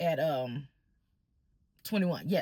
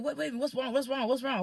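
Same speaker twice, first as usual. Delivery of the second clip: higher, repeated worried questions, imitated; retold concern, pitched up without shouting; alarmed father; 5 semitones higher than usual. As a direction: imitate a suddenly worried parent. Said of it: "Of course, he alarmed now".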